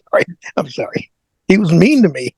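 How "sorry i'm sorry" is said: softer, apologizing through a laugh; laughing apology. Real, not acted. Guest laughing after admitting he disliked his brother. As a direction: laugh it off while saying sorry.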